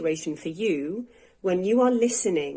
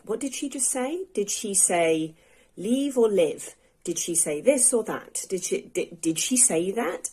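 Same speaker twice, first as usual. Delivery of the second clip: replaying her own confused thoughts, lightly voiced; a hint of confusion as she questions herself; puzzled inner voice; 3 semitones higher than usual. Teacher imitating herself mid-podcast, mildly puzzled. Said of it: "and asked myself".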